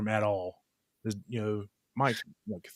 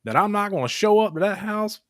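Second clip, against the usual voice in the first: rising, louder, slow indignant challenge; heated rebuke; 9 semitones higher, 5 dB louder than usual. Retold or imitated. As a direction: call him out, incredulous. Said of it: "retold heated reply to Randy".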